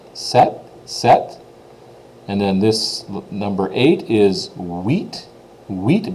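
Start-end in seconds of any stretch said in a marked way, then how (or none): 0.1-1.4 "set" as in volleyball, no p sound; French seven as "set", p silent; silent P sept. Shown as a demonstration. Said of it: "so the P is totally silent". 5.7-6.1 "Wheat" with the t barely touched; French eight like "Wheat", feather-light t; soft T huit. Shown as a demonstration. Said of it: "barely touched the T though".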